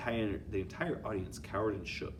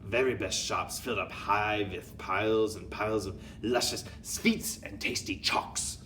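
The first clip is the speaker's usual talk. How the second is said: louder scornful put-on accent; shouting witch; 4 dB louder than usual. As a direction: shout down the idea. Grand High Witch speaks.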